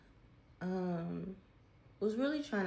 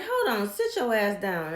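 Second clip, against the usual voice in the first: imitating dad's loud stern command; stern order; 4 semitones higher, 9 dB louder than usual. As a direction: bark it like an angry father. Dad orders her to sit.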